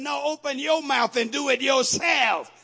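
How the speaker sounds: loud, firm "open your mouth"; shouted divine reply. Acted. God telling the church to act, shouted reply. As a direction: answer with a shout of authority.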